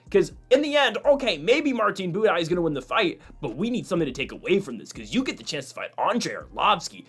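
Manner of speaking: a hint of a podcast host making a point; half-hearted imitation of a fight commentator lecturing; Joe Rogan impression. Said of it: "I'll try to do my best Joe Rogan impression here".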